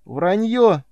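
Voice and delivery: high, loud scream echoing off walls; boy screaming denial again. A narrator's reading.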